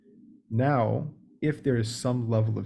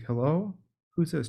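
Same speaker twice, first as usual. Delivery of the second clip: raised, wary question; suspicious hello; 6 semitones higher than usual. Retold or imitated. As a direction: ask high and guarded. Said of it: "somebody who's like".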